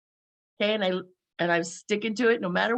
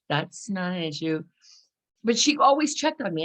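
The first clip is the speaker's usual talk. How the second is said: ordinary talk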